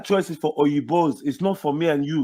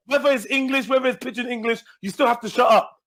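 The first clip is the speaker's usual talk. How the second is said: higher, heated telling off; raised, heated voice; angry, higher pitched scolding; 4 semitones higher than usual. Real, not acted. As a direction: demand he shuts up. Angry at uncle interrupting.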